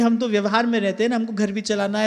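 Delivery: quietly listing worldly obligations; excuse-making devotee. Acted. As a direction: reel off excuses in a low, fading voice. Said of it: "ये मत कहना कि".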